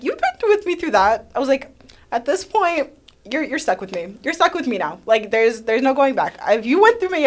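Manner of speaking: high, loud joyful declaration; loud affection. Retold or imitated. Telling her best friend he's stuck with her, loud. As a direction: beam it at him loud.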